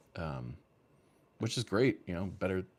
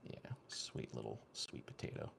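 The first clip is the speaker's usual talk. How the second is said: hushed whisper so the dog keeps sleeping; real whisper; 9 semitones lower, 13 dB quieter than usual. Real, not acted. Owner checking on sleeping dog, soft whisper. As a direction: breathe it softly, no voice.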